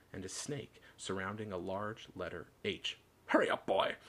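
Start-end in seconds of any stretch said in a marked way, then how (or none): 3.3-4.0 high, loud call from another room; impatient shout to hurry the boy along; shouting uncle. A narrator's reading. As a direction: holler it from the kitchen. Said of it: "shouted Uncle Vernon from the kitchen".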